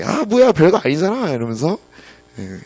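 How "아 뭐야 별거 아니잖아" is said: high-pitched daughter, lightly amused; laughing protest. Retold or imitated. Daughter teases dad over easy answer, mock laughing protest. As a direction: play a child's relieved mock complaint. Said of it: "막 웃으면서 아빠에게".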